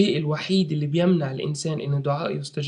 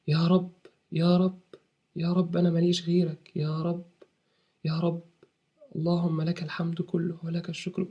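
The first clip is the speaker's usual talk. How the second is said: humble pleading prayer. Shown as a demonstration. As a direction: plead gently as if alone in the mosque. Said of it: "واقعد قول له". (دعاء خاشع بصوت منخفض)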